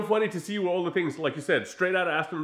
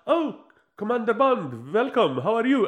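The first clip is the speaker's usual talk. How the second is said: a hint of a cheery manager; 6 semitones higher, 4 dB louder than usual. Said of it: "hotel manager's like".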